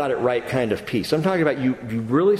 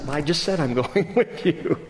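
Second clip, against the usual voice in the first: amused God. Retold or imitated. God amused by Moses' repeat.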